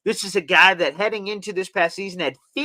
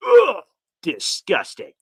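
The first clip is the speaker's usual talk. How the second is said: disgusted; 4 dB louder, slower than usual. Real, not acted. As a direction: recoil in disgust.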